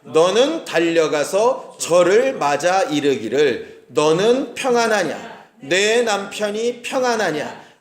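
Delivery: measured, slow reading of the verse; slow scripture reading. Shown as a demonstration. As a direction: read it out slowly and solemnly, word by word. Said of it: "시작".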